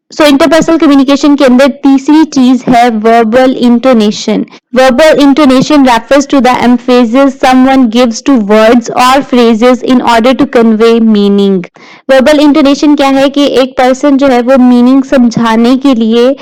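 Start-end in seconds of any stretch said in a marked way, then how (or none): 4.8-11.6 slow, measured reading of slide text; slow lecture read-aloud. Acted. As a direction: read the definition out word by word, slowly.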